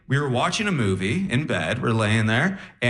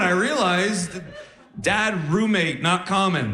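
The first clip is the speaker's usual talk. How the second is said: usual speaking voice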